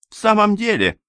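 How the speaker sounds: high, scornful "Indeed"; contemptuous snort. A narrator's reading. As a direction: sneer at him from above. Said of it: "презрительно фыркнула". (презрительно фыркая, высоко)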